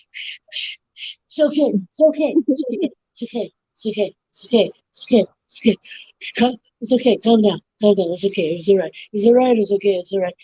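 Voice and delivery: calm her like a frantic nanny; mock soothing. The bartender shushes the manager, mock soothing.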